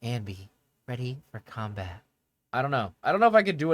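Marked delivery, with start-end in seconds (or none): 0.0-2.0 low, soft game-character voice; Anby. Shown as a demonstration. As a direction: attempt a quiet, lowered female character voice. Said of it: "like, an Anby voice".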